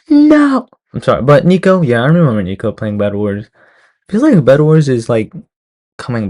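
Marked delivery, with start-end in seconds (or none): 0.1-0.7 squealed laughing no; high laughing no. Real, not acted. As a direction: yelp it out, laughing, much higher. Laughing protest at own mistake.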